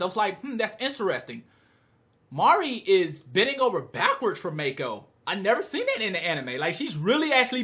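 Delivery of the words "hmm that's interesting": softly intrigued musing; a quiet, thoughtful hmm to yourself; mildly curious. Retold or imitated. Viewer reacting to Mari begging, mildly curious. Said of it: "I was curious".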